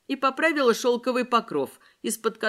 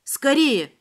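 urgent, higher call to hurry; urgent exclamation; 4 semitones higher, 4 dB louder than usual. Acted. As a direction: urge them on, quickly. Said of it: "воскликнула Вероника".

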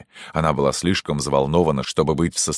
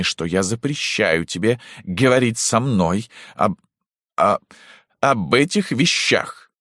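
trembling voice; 4 semitones higher than usual. Acted. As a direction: hold your voice steady and fail. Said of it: "дрожащим голосом". (дрожащим голосом)

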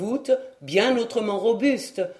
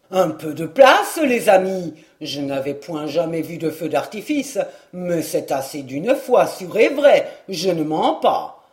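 put-on louder rough country boy, cheeky and breathless; a brash young peasant shoving through the crowd; rustic lad, loud; 3 semitones lower, 3 dB louder than usual. Joson pushing through the crowd to his friends, rough and loud.

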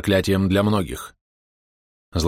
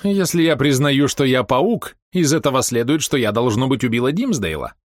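bored mocking logic; 6 semitones higher than usual. A narrator's reading. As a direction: toy with him after a yawn. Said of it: "демонстративно зевнула". (скучающе и насмешливо)

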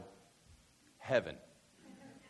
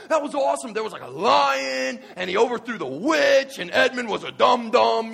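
put-on high, loud, slow kid voice gushing; the nephew raving to his uncle, squealing high and loud; excited kid; 11 semitones higher, 15 dB louder than usual. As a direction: play the wide-eyed eight-year-old nephew. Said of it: "He's going".

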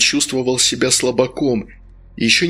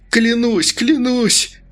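high, desperate swearing; frantic vow; 11 semitones higher, much slower than usual. Acted. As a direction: beg in panic. Denis begs.

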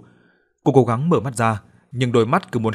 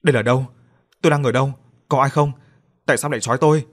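raised, panicked questions on waking; frightened cry; 3 semitones higher, 4 dB louder, faster than usual. Acted. Drugged woman wakes tied up, crying out in fright. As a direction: call out in alarm, not knowing where she is. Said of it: "cô la lên".

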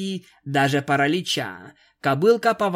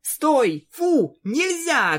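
shouting commands; 10 semitones higher, much slower than usual. A narrator's reading. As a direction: yell it like scolding a dog. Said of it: "кричала Рейнбоу".

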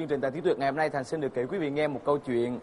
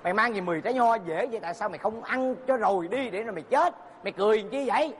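mock angry scolding; 3 semitones higher than usual. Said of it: "anh tức lắm, anh mới chửi".

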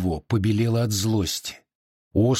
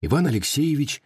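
plain reading voice

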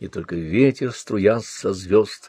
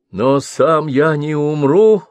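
a firm, raised cry, slower; exclaiming; 6 semitones higher, 6 dB louder than usual. Acted. Old wanderer Mal defying death, loud exclamation. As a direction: exclaim it in defiance. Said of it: "воскликнул странник Мал".

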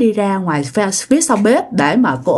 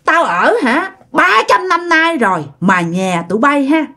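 a touch of a threatening demon, higher; 4 semitones higher than usual. Retold or imitated. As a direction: lightly play the hungry house demon. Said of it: "Tao á là con quỷ". (giọng quỷ đe dọa, nhẹ)

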